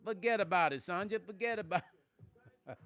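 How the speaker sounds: hammed-up New York "forget about it"; playful New York-Jersey accent. Teasing Sonya who's not from Jersey, mock New York accent.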